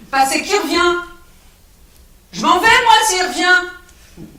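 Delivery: loud, high, dragging out the last words; explode, then stretch it out slowly; furious shout. Acted. Alex losing his temper.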